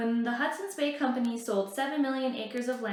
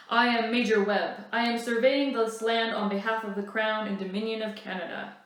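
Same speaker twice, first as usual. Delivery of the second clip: louder, formal commanding major; a hint of an official's self-importance; pompous officer; 5 dB louder than usual. Major Webb announcing his survey, louder formal voice.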